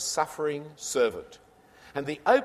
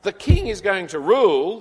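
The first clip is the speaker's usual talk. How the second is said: much louder and higher declaration; ringing proclamation; 4 semitones higher, 8 dB louder than usual. Real, not acted. Preacher setting king against suffering servant, in a loud proclamation. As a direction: proclaim the king's rule out loud.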